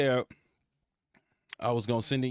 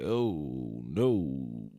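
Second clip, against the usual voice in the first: much lower, deep mock general; general's voice; 10 semitones lower than usual. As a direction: drop low like a gruff general. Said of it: "the general get to talking like this".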